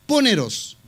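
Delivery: "poneros" with the accent on the last O; stress on final O. Shown as a demonstration. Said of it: "acento en la, en la O".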